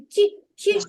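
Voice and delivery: чі with a soft ch and i; soft consonant demo; soft chi. Shown as a demonstration. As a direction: say чі softly, palatal. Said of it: "Як ми промовляємо".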